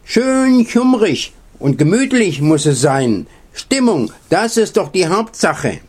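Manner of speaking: high-pitched owl voice, lightly put on; lightly wailing owl. A narrator's reading. Owl insisting on cosy Christmas mood, lightly wailing. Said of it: "heulte die Eule".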